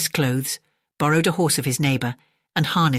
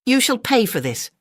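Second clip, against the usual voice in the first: vengeful threat; 8 semitones higher than usual. A narrator's reading. Great Claus vows revenge.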